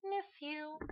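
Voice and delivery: mock pestering chant of a name; annoying spam. Pretending to spam Erica on Facebook, lightly pestering. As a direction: drone the name over and over like a nag. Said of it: "I will just troll on your Facebook".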